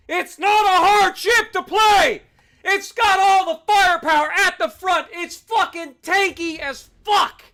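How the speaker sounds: ranting, shouting at teammates; furious yell at the useless team; real gamer rage, half shouted; angry shout. Real, not acted. Raging at teammates in game.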